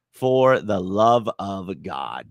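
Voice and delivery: "for the love of God" dragged out slowly; exasperated slow plea; slow pleading. Real, not acted. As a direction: beg slowly, word by word.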